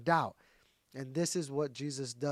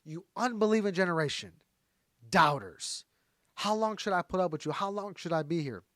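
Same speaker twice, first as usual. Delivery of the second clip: mildly exasperated retelling, pitched up a touch; a little frustrated. Acted. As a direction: act out an exasperated teacher scolding doubters. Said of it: "So Jesus is a little frustrated here".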